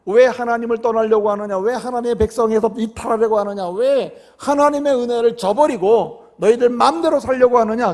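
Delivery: preacher imitating a telling-off; acted scolding. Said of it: "그러면서 야단을 칩니다".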